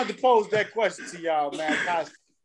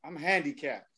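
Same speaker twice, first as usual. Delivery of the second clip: soft, lower mock-solemn confession; hangdog quote; 5 semitones lower, 8 dB quieter than usual. Retelling the friend's quiet excuse, head dropped. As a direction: drop your head and say it quietly. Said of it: "dropped his head and said".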